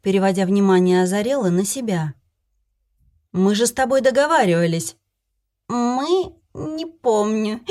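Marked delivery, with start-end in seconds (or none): 3.3-5.0 louder, indignant reproach. Acted. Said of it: "возмутилась я". 5.7-7.6 high, slow, tipsy fairy. Acted. Drunk fairy voiced.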